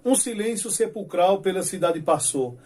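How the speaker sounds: declaiming dark verses with steady rhythm; poem recital. Shown as a demonstration. Teacher reciting Leandro's midnight stanza, solemn recital. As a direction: read it like a solemn cordel poet. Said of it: "ele diz assim".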